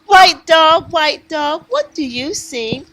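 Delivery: rhythmic picture-book refrain; reading to children. Acted. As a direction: chant it invitingly for little listeners.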